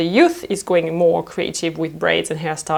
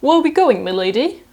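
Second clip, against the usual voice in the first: London taxi driver; 4 semitones higher than usual. Retold or imitated. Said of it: "the taxi driver asks".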